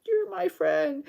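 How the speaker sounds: high, odd put-on announcement; abrupt declaration. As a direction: claim him as a friend.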